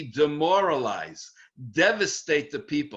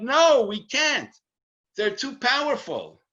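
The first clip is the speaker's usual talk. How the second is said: mock refusal; 5 semitones higher than usual. Teacher voices the fearful majority.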